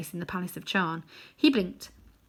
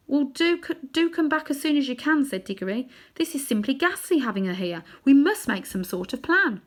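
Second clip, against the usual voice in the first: put-on anxious boy; 7 semitones higher, 3 dB louder than usual. Diggory pleads.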